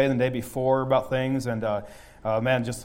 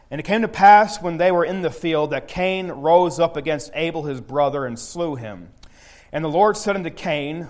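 scripture reading; 2 semitones higher, 3 dB louder than usual. Acted. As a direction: read it like holy writ. Reads scripture aloud.

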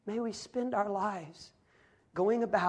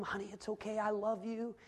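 soft, soothing husband; quiet retold words of comfort; tender reassurance; 2 semitones higher, 6 dB quieter than usual. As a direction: gently comfort a crying wife, voice lowered. Husband comforts his crying wife.

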